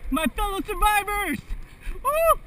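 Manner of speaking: high, loud mock speech; rally cry. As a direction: hail the survivors grandly.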